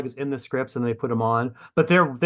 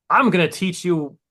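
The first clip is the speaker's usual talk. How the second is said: mock preachy author; 4 semitones higher, 3 dB louder than usual. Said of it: "but I'm like".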